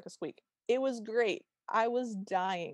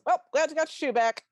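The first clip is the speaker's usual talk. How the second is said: mock brush-off; 6 semitones higher, 6 dB louder than usual. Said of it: "and goes".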